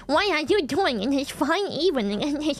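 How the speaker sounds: lightly imitated Southern German accent in English; a touch of Southern German accent; Southern German equivalent accent. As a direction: put on a hint of a Bavarian accent, mock-genteel wording. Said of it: "They're more like".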